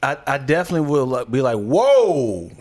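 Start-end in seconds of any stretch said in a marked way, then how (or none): 1.6-2.5 loud rising-falling whoa; startled reaction. Acted. Reacting to someone from his hometown, startled. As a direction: stop short in mock alarm.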